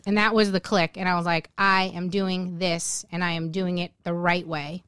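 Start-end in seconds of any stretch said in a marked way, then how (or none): 1.6-4.8 retold resolution, steady and low; determined vow. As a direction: measure out each word with resolve. Retold vow at the turning point.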